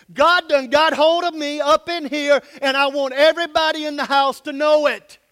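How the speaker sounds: loud, high, fervent proclamation; preacher voicing children's bold praise, shouting. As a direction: shout it for the whole house to hear.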